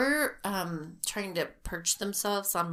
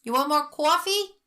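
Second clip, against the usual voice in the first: higher, louder mock waitress call; imitating waitress; 8 semitones higher, 8 dB louder than usual. Retelling a Philadelphia waitress offering coffee, loud call. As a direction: call it across the diner like a waitress. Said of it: "the waitress was like".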